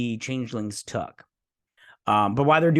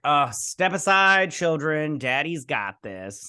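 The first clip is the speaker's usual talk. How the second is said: hammed-up confident engineer; cocky hero; 3 semitones higher, slower than usual. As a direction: play the cocky rescuer. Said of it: "he's all like".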